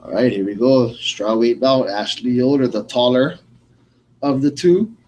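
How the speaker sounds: loud, lightly announcer-style bout call; fight announcer. Real, not acted. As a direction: announce the matchup, projecting each name. Introduces the fight.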